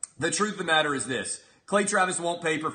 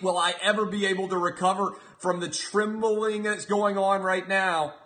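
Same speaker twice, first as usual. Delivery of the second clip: mock dread; 5 semitones higher than usual. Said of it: "as if I'm gonna be trembling".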